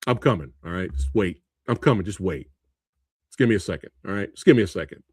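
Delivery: understated bored Terminator rewrite; mock rewrite. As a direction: mumble the limp AI version. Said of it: "Better put that in the movie".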